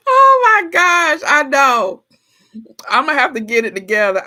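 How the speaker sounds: excited outburst. Real, not acted. Laughing at friends' grocery joke, excited and loud. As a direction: burst out in disbelief.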